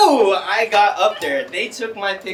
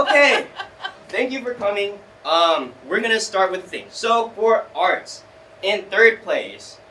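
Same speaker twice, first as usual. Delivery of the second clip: mock awards announcer; 4 semitones higher, 4 dB louder than usual. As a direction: announce it like a stiff emcee.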